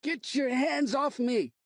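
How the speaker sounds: slow, high struggling shout. Acted. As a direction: bellow while fighting free. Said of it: "Will shouted".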